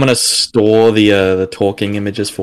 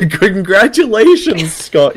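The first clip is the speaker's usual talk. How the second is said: mock congratulations; 9 semitones higher, 3 dB louder, slower than usual. Mock celebration.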